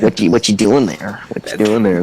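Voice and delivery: lightly voiced nosy, self-important gamer; impression of big-ego guy. Magic player checking on a club mate, lightly mimicked. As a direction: question them in a slightly put-on gamer voice. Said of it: "can you do an impression of him?".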